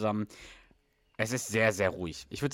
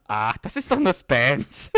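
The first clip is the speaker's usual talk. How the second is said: put-on 1 dismissive girl voice; 3 semitones higher, 5 dB louder, slower than usual. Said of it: "Weißt du noch, was Elena sagt".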